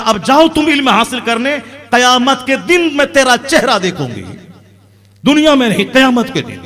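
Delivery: loud, high, declaimed farewell; mother's solemn send-off. Retold or imitated. Old mother sends son away. (माँ की ऊँची, ज़ोरदार विदाई)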